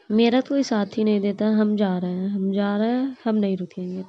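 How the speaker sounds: loud, huffy threat to walk out; angry sulk. Acted. Krishna announces he's leaving because nobody backs him, loud and sulky. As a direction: storm off like a wounded grown-up. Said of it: "गुस्सा होके जाने लगते हैं".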